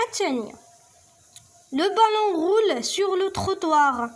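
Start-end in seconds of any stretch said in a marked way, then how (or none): 1.7-4.1 higher, very slow reading; slow teacher read; slow statement read. Shown as a demonstration. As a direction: read it out slowly for pupils. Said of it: "Vrai ou faux?".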